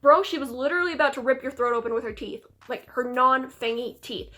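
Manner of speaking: telling off an idiot who won't listen; hammed-up fed-up hunter yelling "back off"; exasperated Van Helsing. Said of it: "And Van Helsing's like".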